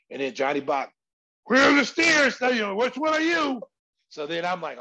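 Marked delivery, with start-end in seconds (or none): 1.4-3.6 high, loud imitation of a coach; mock yell across the gym; yelling old coach. Retelling old coach yelling at him.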